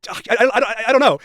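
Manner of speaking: high, loud exasperated yelling; frustrated shout. Real, not acted. Yelling in frustration about the deleted logs. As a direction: vent at full volume in disbelief. Ranting about being disbelieved.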